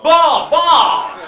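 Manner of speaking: sudden high shout. Acted. Punchline shouted.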